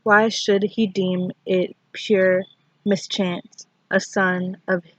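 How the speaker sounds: measured recital with long pauses between lines; poetry reading. Acted. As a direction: read the poem in short, deliberate phrases. Recites a poem.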